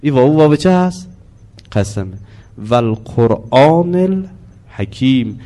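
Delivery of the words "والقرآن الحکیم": slow intoned verse; Quran recitation. Shown as a demonstration. Teacher quoting the verse to class, slow recitation. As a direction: recite it slowly, word by word.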